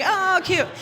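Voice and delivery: high-pitched mock aww; cooing. Audience reacting to cute newlyweds, high cooing. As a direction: coo at something adorable.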